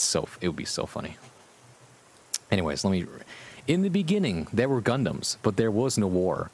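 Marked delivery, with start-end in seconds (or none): 3.7-6.5 dramatic storybook opening; story narration. A narrator's reading. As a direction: read it like an epic prologue. Rereading fanfic opening.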